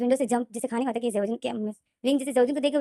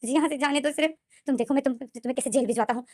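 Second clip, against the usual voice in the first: crying shout; 3 semitones higher than usual. Acted. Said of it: "रोते हुए ये चीख रहा था".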